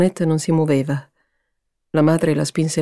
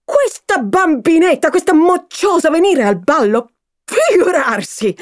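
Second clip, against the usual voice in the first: high, loud scolding mother; angry tirade; 6 semitones higher, 4 dB louder than usual. Acted. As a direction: tear into the daughter. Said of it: "proseguì sullo stesso tono". (madre furiosa che rimprovera)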